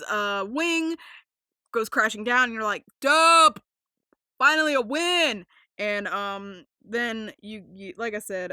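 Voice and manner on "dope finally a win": loud, high-pitched celebration; excited fan cheer. Acted. Host voicing fans watching the crash, triumphant cheer.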